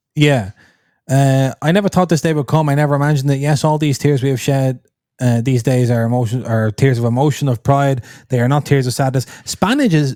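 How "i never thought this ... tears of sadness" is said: ordinary delivery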